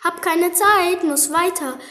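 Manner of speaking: high, loud hasty cry; hurried call. Acted. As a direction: call it out while rushing off. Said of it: "rief der Pfannkuchen".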